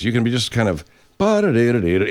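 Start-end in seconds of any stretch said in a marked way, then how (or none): 1.2-2.1 rattled-off nonsense syllables; imitated noise. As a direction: mimic a distant racket. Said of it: "you hear fucking noises".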